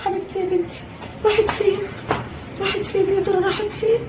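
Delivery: high anxious cries; worried mother searching; frantic search. Acted. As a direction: panic while searching. Searching frantically for lost girl.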